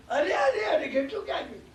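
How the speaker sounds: high alarmed અરે, fading into a laugh; a man suddenly finds his sheep gone; startled cry. Acted. Man discovers sheep missing.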